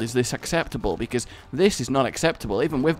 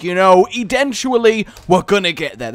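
put-on old man voice; 4 semitones higher, 6 dB louder than usual. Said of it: "That was terrible".

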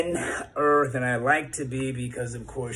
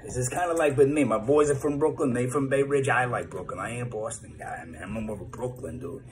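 light Brooklyn tough-guy accent; a hint of a Brooklyn guy bragging to the boys. Shown as a demonstration. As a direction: talk like a Brooklyn dude, lightly. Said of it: "Or I go to New York".

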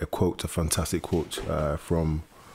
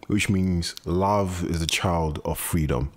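slow, measured delivery; solemn translation; much slower than usual. Acted. Explaining what the French quote means, solemn and measured. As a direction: let each word land slowly.

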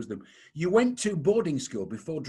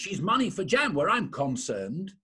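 put-on posh kid line; 4 semitones higher than usual. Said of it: "I was playing a, a very posh kid".

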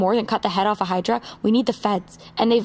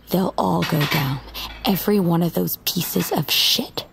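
lower, slow, cold promise of revenge; grim vow; 3 semitones lower, slower than usual. Acted. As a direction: let each word land like a threat. Vows revenge on traffickers.

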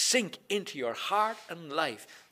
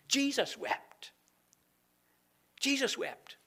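higher, slow, lifted Jesus; high emphatic; 11 semitones higher than usual. Acted. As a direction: raise your voice on Jesus. Repeats verse with emotion.

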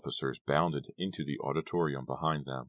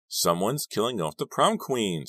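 higher, slow, emphatic snap; snapped; 6 semitones higher, 4 dB louder than usual. A narrator's reading. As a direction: snap it out, drawing the words out. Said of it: "snapped Dawn".

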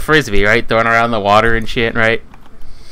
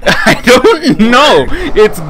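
laughing; 10 semitones higher, 4 dB louder, much slower than usual. Real, not acted. Laughing at own story.

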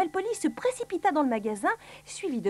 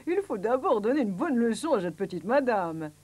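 lightly put-on doctor voice; theatrical doctor's verdict; declaiming doctor. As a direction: pronounce it like a storybook doctor.

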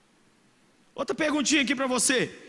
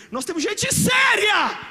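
loud, slow, much higher proclamation; emphatic shout; 8 semitones higher, 8 dB louder, slower than usual. Real, not acted. Preacher to congregation, defending the church's leaders in a loud shout. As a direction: declare it to the whole church.

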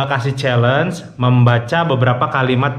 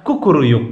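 rooster crow imitation. Shown as a demonstration. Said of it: "Okay, in Indonesia".

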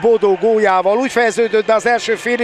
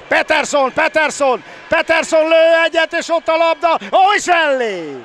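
excited sports commentary; 5 semitones higher than usual. Real, not acted. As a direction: build up as the attack comes. Live attack commentary.

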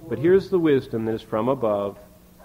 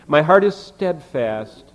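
louder and slowed, leaning on heart; emphatic declaration; 2 semitones higher, 6 dB louder, slower than usual. Shown as a demonstration. Preacher reading the psalm to his congregation, loud and emphatic. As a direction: proclaim it with full conviction, heart stressed. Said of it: "emphasis again".

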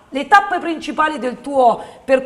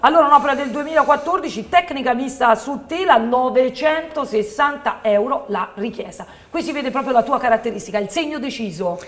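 infomercial. Acted.

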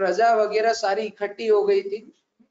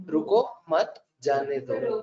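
low, slow, evenly spaced words; statement read out; 6 semitones lower, slower than usual. Shown as a demonstration. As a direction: repeat it word by word, unhurried. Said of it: "एक statement सुनाता हूँ".

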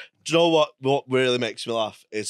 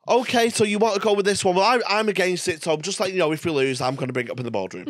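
mock contestant; 4 semitones higher, much faster than usual. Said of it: "that's how they start off".

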